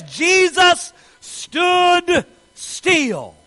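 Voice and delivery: very slow, drawn-out scripture line; dramatic slow reading. Acted. Preacher slowing right down to quote the Bible. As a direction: let each word stand still.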